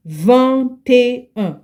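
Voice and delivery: vingt et un with the t linked onto et, vant-ay-un; linked liaison. Shown as a demonstration. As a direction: link the t of vingt into et. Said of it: "that's how you pronounce it".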